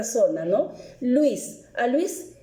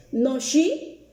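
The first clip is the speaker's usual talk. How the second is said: slow model answer; much slower than usual. Shown as a demonstration. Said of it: "isn't es el negativo del verbo to be".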